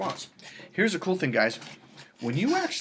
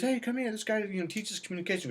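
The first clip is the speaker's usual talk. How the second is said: high, light imitation of a woman calling over; mock woman's voice; 8 semitones higher, 3 dB quieter than usual. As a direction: call her friend over in a higher voice. Retold woman calling friend over.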